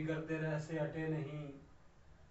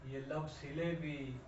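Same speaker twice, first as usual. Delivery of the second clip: poetic recitation; 3 dB louder than usual. Acted. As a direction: savour the verse, then rush the end. Reciting the second line. (مشاعرے کے انداز میں شعر پڑھنا)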